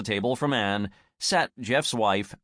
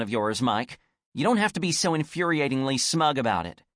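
exasperated; 4 semitones higher than usual. Acted. Anne's angry rant at Mike.

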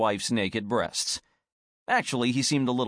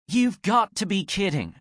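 disbelieving; 8 semitones higher than usual. Acted. Character disbelief in story.

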